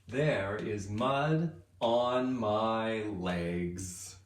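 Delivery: very slow poem line; slow read-aloud. Acted. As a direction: drag each word for the kids. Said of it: "I said".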